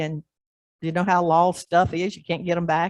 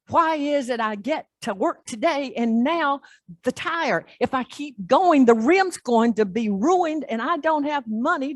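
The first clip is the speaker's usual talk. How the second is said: distraught cursing; 5 semitones higher than usual. Retold or imitated. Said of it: "yelling and screaming and crying and cursing".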